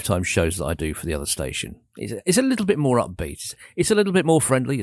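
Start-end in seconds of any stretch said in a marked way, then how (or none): 2.0-4.8 upbeat. Shown as a demonstration. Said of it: "It's a little bit more like this".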